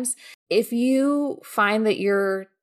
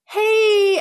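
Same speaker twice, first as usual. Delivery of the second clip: a much higher, louder, chirpy mock hey; bubbly exclamation-point hey; 14 semitones higher, 7 dB louder than usual. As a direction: chirp it like a perky email greeting. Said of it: "exclamation point".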